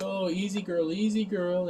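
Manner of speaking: mock soothing. Bruce trying to calm She-Hulk down, mock soothing. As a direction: lightly imitate settling a spooked animal. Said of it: "tries to start calming her down".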